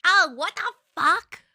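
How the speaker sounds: loud, high, stunned what the fuck; a loud incredulous yell; shocked outburst. Real, not acted. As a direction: blurt it out in real disbelief. Shocked reaction to story twist.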